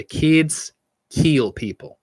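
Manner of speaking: put-on "Kids" leaned on, the line spoken slowly and deliberately like a spooky motto; slow ominous catchphrase. Shown as a demonstration. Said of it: "as we used to say".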